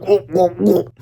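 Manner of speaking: hammed-up villain's whimpers; a little cartoon cry of dismay; mock wail. Villain getting flushed, hammed-up whimpers.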